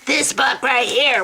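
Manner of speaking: lightly hammed-up emphatic declaration; mock zealot catchphrase. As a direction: imitate a zealot brandishing the book. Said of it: "I'm sorry, it's actually".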